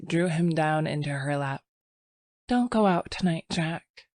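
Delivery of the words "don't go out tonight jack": pleading. Acted. Sylvia pleads.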